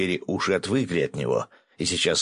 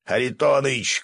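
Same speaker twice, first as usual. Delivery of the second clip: higher-pitched urgent call; shout; 6 semitones higher, 3 dB louder than usual. A narrator's reading. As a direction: call out his name sharply. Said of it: "крикнул Свят". (окрик)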